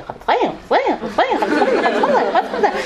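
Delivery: high, looping singsong repetition; repetitive child. Retold or imitated. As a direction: imitate a child stuck on one phrase. Child repeating it all day.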